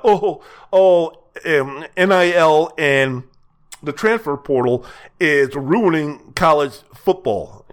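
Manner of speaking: whiny mocking voice, slowed and drawn out; hammed-up lament from a pampered coach; mock whining coach. Sports host mocking coaches who whine about NIL, whiny mock voice. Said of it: "whining and complaining and lamenting".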